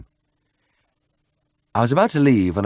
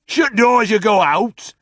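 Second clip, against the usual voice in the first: deepest bass; 13 semitones higher, 6 dB louder, slower than usual. A narrator's reading. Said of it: "the miner requested in deepest bass".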